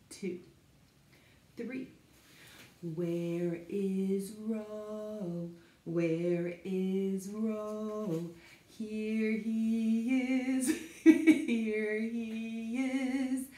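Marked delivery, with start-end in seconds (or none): 2.8-8.3 playful search. Pretend. Playful hide and seek. 8.7-13.4 very slow, louder sing-song reveal; playful reveal. Pretend. Finding Ro in basket.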